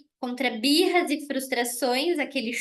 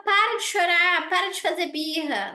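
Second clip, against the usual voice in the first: impatient scolding; 4 semitones higher than usual. Retold or imitated. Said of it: "não é falar".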